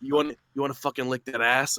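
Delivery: soft imitation of a phone come-on; mock dirty talk. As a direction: lightly mimic a hushed proposition.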